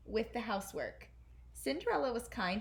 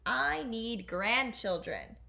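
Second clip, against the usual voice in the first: king; 4 dB louder, slower than usual. Acted. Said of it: "he told the Grand Duke".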